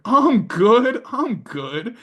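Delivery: high-pitched casual brother voice; brother brushing it off. Retold or imitated. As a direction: toss it off like it's nothing.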